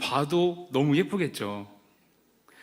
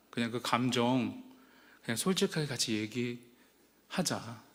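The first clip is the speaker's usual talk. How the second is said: calm the sister down gently; soothing; 4 dB quieter than usual. Retold or imitated. Brother comforting his crying sister, soothing. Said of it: "그 여동생을 달랬습니다".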